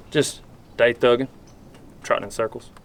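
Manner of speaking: like the question bores you; slightly disrespectful. Shown as a demonstration. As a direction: throw it off, almost pissed off. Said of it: "slightly disrespectful".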